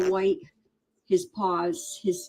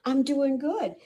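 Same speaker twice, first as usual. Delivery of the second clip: much higher, louder cutesy kitten voice; voicing the kitten; 4 dB louder than usual. Rescuer speaks for the kitten to viewers, high cutesy voice. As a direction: speak for the kitten in a tiny happy voice.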